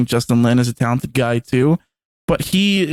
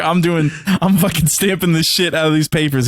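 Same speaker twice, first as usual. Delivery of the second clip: mock Hobbs; 4 semitones higher than usual. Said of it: "And Hobbs is like".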